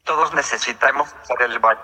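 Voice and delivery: even computer text-to-speech voice; synthesized voice. Real, not acted. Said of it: "esta es una voz sintetizada".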